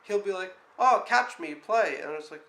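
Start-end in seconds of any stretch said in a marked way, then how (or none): 0.8-2.0 higher, louder playful mimicry of a child; mock-eager little kid calling out; imitating an excited kid. Nanny imitates the boy begging to play, excited child voice.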